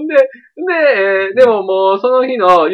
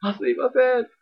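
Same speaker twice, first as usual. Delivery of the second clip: put-on high, embarrassed young woman; 恥ずかしがる女の子; 8 semitones higher than usual. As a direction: play the shy girl who fell. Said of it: "とか言って". (転んで恥ずかしがる女の子のまねを高い声で)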